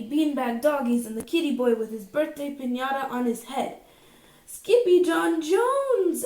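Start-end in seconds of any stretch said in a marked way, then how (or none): 4.5-6.2 loud, slow drawn-out call; loud cry. A narrator's reading. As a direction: call his name in alarm. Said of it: "everyone cried".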